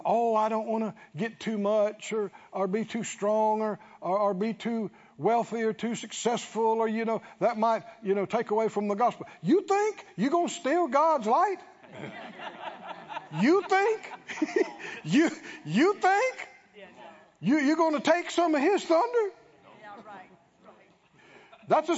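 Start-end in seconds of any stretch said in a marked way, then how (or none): 0.1-9.3 timid believer. Retold or imitated. Preacher mimicking folks who fear success, mildly meek. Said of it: "folks have thought". 9.4-19.3 amused, laughing ridicule; scoffing laugh. Real, not acted. Preacher scoffing at the congregation's fear, laughing.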